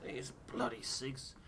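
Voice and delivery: a hint of a grumbling sailor; grumpy Tucker. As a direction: growl it out like a fed-up old sailor. Character Tucker voiced in game.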